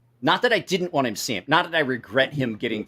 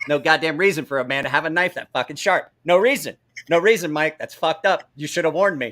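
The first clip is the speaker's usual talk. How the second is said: retold angry complaint; 3 semitones higher, 3 dB louder than usual. Retold complaint from cut knife borrower.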